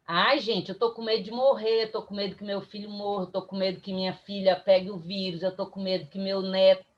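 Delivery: fast, low run of acted worries; mock anxious babble, hurried; fretful worrying. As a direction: rattle off fears like an anxious person. Acted list of anxious fears.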